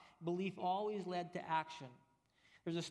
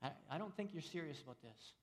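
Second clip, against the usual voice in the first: quiet doubting stranger; 7 dB quieter, faster than usual. Retold or imitated. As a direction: shake your head and murmur it. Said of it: "outsider shakes his head".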